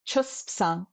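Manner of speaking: Chuspsang with the whole S-P-S cluster sounded; archaic full pronunciation. Shown as a demonstration. Teacher recalls long ago, Chuspsang with all its letters pronounced. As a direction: sound every consonant in Chuspsang. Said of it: "this would have been pronounced".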